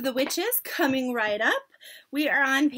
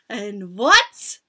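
louder, emphatic prompt; witch's shout; 4 semitones lower, 6 dB louder than usual. A narrator's reading. Witch quizzes her audience, raising her voice. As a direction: call it out like a witch working a crowd. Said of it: "shouted the Grand High S".

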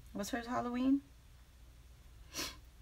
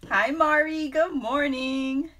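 cheery greeting; 7 semitones higher, 6 dB louder, slower than usual. Real, not acted. Greeting a viewer by name.

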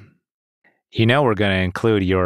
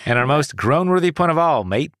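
higher, restrained British read; just hint at a British accent; partial British accent; 4 semitones higher than usual. Shown as a demonstration. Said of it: "you don't have to go full British accent".

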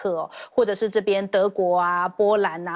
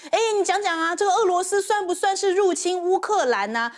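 raised, prodding question to a spokesman; pressing question; 7 semitones higher than usual. Retold or imitated. Reporters pressing the spokesman, raised prodding question. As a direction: needle him for an answer, pitched higher. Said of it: "就说".

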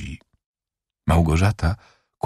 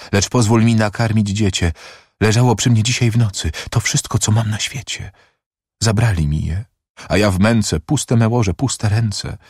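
high-pitched plea of a bereft mother; anguished lament, acted; desperate pleading; 4 semitones higher than usual. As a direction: plead for your child, voice lifted. Prisoner pleads for her child.

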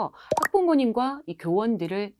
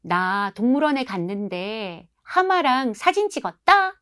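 put-on bragging child; 3 semitones higher than usual. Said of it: "아이 친구가 이렇게 얘기를 한 거예요".

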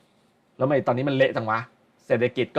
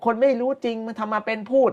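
a hint of a scoffing executive, pitched higher; mocking the defensive boss; 8 semitones higher than usual. Executive scoffing at stock critics, lightly voiced mock scorn. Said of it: "ตอนแรกเขาก็จะแบบว่า".

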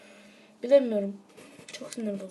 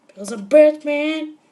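Batman voice; 3 semitones higher, 9 dB louder, slower than usual. Pretend. Batman quote mid-game.

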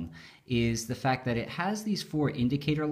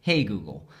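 talking to voice assistant; 2 semitones lower than usual. Shown as a demonstration. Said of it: "or you can say".

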